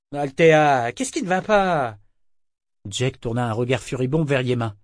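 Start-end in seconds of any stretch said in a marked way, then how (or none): 0.1-2.0 high, loud worried question; alarmed. A narrator's reading. Jek alarmed at her raving friend, high. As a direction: ask in alarm what is wrong.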